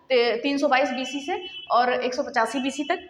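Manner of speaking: slow, clear dictation of the dates तीन सौ बाईस बीसी to एक सौ पचासी BC; slow exam dictation. Shown as a demonstration. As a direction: spell the dates out slowly for notes. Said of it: "ठीक है".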